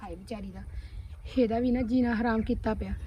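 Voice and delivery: soft, low sigh of sympathy; pitying aside. Acted. Cousin alone pities her mistreated sister, quiet aside. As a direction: mutter it sadly to yourself.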